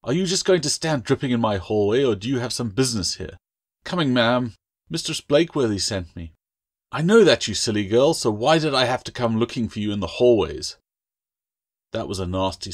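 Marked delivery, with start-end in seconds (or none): 0.0-10.8 put-on louder, stern scolding of a girl; scolding mistress. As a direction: scold her impatiently.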